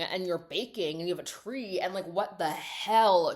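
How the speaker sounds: mock exasperated ex-girlfriend tirade; acted-out incredulous complaint; indignant rant. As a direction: build an accusing list, leaning hard on key words. Acting out ex-girlfriend's rant at Joseph.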